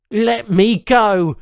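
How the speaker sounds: loud, slow, high shout; strapped-down man demanding release; forceful demand. A narrator's reading. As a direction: push it out with real force. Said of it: "put enough force behind it".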